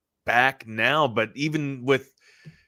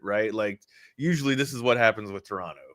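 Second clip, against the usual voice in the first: usual speaking voice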